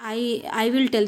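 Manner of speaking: crawling word by word through the English; slow sentence reading. Shown as a demonstration. Teacher reading the tail and tell example, very slow. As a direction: read it so they can copy it down. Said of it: "तो टेल, यहाँ पे बिल्ली".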